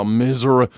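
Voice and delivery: "Missouri" ending in "uh", like "Mizzurah"; Missouri pronunciation. Retold or imitated. Comedian mocking the state's name, Missouri pronunciation. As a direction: swap the final "ee" of "Missouri" for "uh". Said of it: "We call it Warsh in Missouri".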